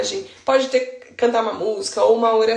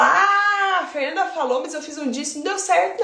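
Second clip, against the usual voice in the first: complaining parent; 5 semitones higher than usual. Retold or imitated. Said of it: "aí eu falo".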